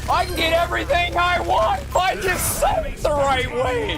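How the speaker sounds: high, insistent exclamation; excited realization. Acted. Someone realizing they can get everything, excited and high-pitched. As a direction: crow it like a jackpot winner.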